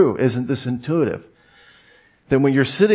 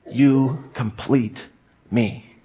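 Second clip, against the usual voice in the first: slow, breathy-free lovestruck line; lightly voiced Tom Cruise swoon; Tom Cruise impression; much slower than usual. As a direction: drag out a mock movie confession. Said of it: "That's my best Tom Cruise impression".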